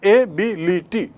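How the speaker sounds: एबिलिटी drawn out in four separate beats; syllable by syllable. Shown as a demonstration. Teacher proving it has four, एबिलिटी split syllable by syllable. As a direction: slowly sound each syllable of एबिलिटी. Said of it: "चार बार बोला गया".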